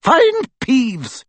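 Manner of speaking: a brisk headmistress giving orders; stern professor. A narrator's reading. A stern witch instructing a fellow teacher, crisp. McGonagall voiced.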